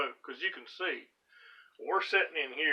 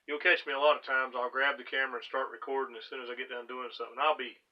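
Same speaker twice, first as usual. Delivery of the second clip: breathless after hard work; talking while winded; out of breath. Real, not acted. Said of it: "I'm still trying to catch my breath now".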